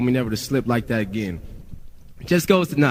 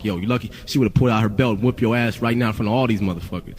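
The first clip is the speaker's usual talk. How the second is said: lower-pitched mock scolding; Ruthless label guys talking; 4 semitones lower than usual. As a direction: imitate a label guy's low warning. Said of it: "That's how they talk".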